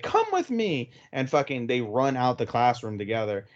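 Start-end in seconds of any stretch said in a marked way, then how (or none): 0.0-0.9 high, rushed urgent order; panicked urging. Retold or imitated. Milika dragging Naoya out of class, panicked and high. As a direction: pull him away in a panic. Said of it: "Milika panics, grabs Naoya, like".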